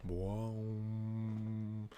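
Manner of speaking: timpani boom. Pretend. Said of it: "Get the timpanis".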